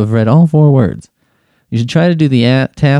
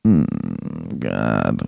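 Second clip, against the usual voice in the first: weary groan; 9 dB quieter than usual. Real, not acted. Groaning at doing quiz on radio.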